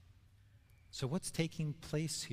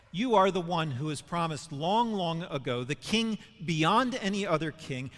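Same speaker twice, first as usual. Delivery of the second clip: rising, louder fervent proclamation as Peter; excited declaration; 2 semitones higher, 5 dB louder than usual. Retold or imitated. Peter telling Jesus who he is, eager and loud. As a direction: Peter bursting out with conviction.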